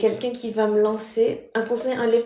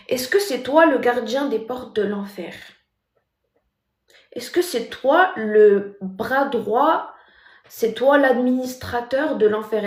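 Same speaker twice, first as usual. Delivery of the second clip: louder, indignant questioning; voice rising; 6 dB louder than usual. Real, not acted. Scolding the commenter who called her bracelet haram, loud. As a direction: raise the tone at the commenter, outraged. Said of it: "le ton va monter".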